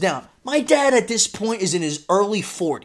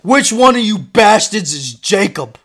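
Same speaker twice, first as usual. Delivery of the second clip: loud, slow, higher-pitched demand; angry dad shouting; 5 semitones higher, 8 dB louder, slower than usual. Retold or imitated. Dad smashing into classroom after a bully, angry shout. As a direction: burst in demanding the culprit.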